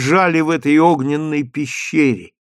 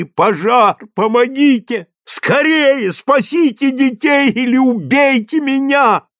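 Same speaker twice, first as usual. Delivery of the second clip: higher, urgent cries for help; desperate cry; 11 semitones higher, 3 dB louder than usual. Acted. Mother cries out to the crowd in despair, high desperate calls. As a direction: scream it out in despair, begging to be saved or killed. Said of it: "взывала в отчаянии".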